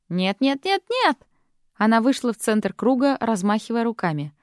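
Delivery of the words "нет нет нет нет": rising shriek, much higher at the end. Acted. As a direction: shriek it in frustration. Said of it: "Изабель взвизгнула". (Изабель визжит: нет, нет!)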